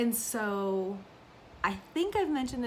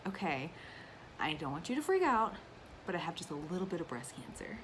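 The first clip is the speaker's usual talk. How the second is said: imitating calm mom; 3 semitones lower, 5 dB quieter than usual. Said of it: "That's how she did".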